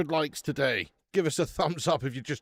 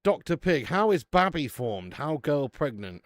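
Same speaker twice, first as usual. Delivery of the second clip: reading a meme message; 6 dB louder, slower than usual. Retold or imitated. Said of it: "Brad Muffin says".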